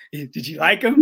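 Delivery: imitating an eager little question; lightly voiced excited fitter. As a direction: mimic his eager little ask. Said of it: "his face, you know, his little".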